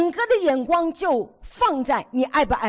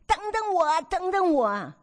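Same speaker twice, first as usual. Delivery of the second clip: high, plaintive call of a wife left behind; lightly voiced old wife pleading wait for me; mock plea to a husband walking ahead; wife calling after husband; 6 semitones higher than usual. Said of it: "妻子后面说".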